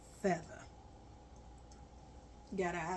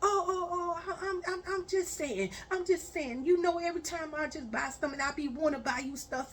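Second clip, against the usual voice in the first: put-on flustered boyfriend; 6 semitones higher than usual. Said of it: "boyfriend flustered reply".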